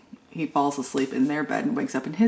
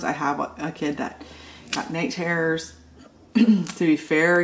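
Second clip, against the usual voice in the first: ordinary talk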